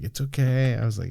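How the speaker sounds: soft, gentle reassurance; hushed consoling voice; retold soothing. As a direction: comfort quietly, as if retelling it. Retold comforting his embarrassed wife.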